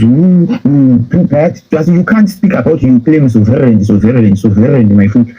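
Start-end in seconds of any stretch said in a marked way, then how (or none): 3.3-5.3 low-pitched scornful repetition. Real, not acted. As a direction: throw their word back with contempt, low. Scornfully repeats their claimed word.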